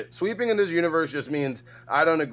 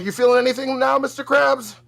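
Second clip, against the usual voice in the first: much higher, goofy put-on cartoon voice; 9 semitones higher, 4 dB louder than usual. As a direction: squeak it out like a silly cartoon character. Pretending to channel a voice.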